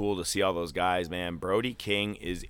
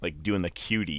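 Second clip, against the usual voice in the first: ordinary delivery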